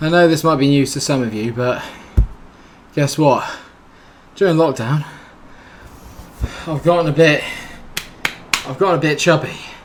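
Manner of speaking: out of breath, still catching breath. Speaking to viewers while still catching his breath, out of breath. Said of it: "I can catch my breath. I think. Yep, you can tell".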